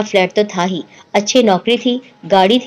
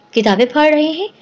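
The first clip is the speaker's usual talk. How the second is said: a mild, higher astonished question; surprised echo; 5 semitones higher than usual. Acted. Friend on the phone, amazed at the news, asking back in surprise. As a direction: repeat it in disbelief. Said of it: "حیرت سے کہا".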